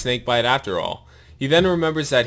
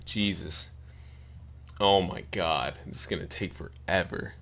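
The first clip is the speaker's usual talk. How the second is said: 1 weary mutter; 5 semitones lower, 9 dB quieter than usual. Real, not acted. Reader muttering aside, exasperated.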